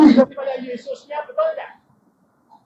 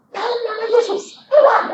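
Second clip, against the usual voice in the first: high, loud casting-out command; a loud high exorcism command; commanding rebuke; 13 semitones higher, 3 dB louder than usual. Retold or imitated. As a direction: order the spirit out in Jesus' name. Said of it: "aku bilang".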